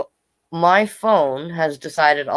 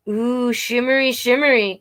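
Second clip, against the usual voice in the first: put-on high, light little-boy voice, a bit higher; delighted little boy; 7 semitones higher than usual. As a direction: coo the word like a toddler in awe.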